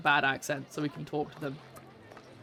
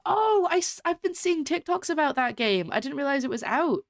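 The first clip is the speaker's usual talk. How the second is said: high, eager burst easing down; light up with a high, surprised "oh"; excited surprise; 9 semitones higher than usual. Real, not acted. Streamer hearing that a game is out, excited surprise.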